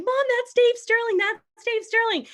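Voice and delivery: put-on high, loud, squealing child voice; excited daughter. Mom retelling her daughter meeting the CEO, mock excited squeal. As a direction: gush like a starstruck little girl. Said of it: "she was so excited".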